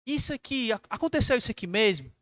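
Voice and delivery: gently probing questions, lifted in pitch on the key phrases; questioning tone. Acted. Preacher models asking a brother what happened, in a questioning tone. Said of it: "eu vou com um tom de pergunta".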